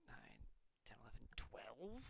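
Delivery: hushed, half-whispered tally; counting under the breath. Real, not acted. Player tallies graveyard cards to themself, quietly. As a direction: count softly to yourself, lifting on the last.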